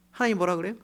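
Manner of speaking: ordinary delivery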